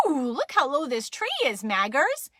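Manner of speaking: a hint of a cooing, impressed mom; amazed Mama. Mama passes it on to Maggers, lightly cooing. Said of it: "And Mama said".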